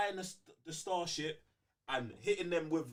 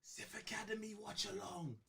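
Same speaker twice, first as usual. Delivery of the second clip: teacher announcing; 5 semitones higher, 9 dB quieter than usual. Pretend. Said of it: "You heard your teacher".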